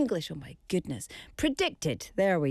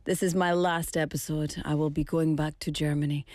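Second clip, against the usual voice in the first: lower, halting attempt at a German accent; imitating the German host's accent badly; 5 semitones lower than usual. Host imitating departing German colleague, weak German accent. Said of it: "I can't do a German accent".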